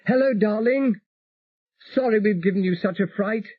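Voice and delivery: gentle apology to her love; voiced Elizabeth, tender. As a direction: Elizabeth greets her husband over the radio, tender. Elizabeth on radio.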